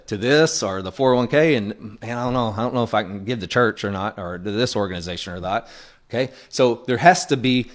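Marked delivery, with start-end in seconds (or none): 2.0-5.7 mock-hesitant mumbling to oneself, softly; unsure giver. Voicing a reluctant, unsure giver.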